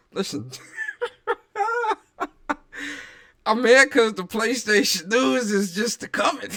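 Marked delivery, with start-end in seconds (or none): 3.4-6.5 loud, high-pitched excited announcement; pumped-up holler; hyped shout. Real, not acted. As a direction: shout the big news to the stream. Hyped announcement to his stream audience.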